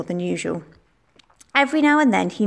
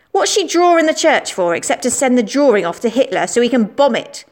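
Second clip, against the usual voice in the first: a hint of a cocky boy, a little louder; lightly voiced boastful schoolboy; 3 semitones higher, 3 dB louder than usual. Schoolboy Billy accusing Anna in the playground, cocky. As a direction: play the know-it-all lad spreading rumours.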